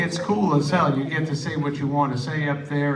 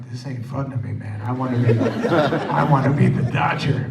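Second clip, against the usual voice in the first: mock whine, laughing; 6 dB louder, faster than usual. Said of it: "I was like".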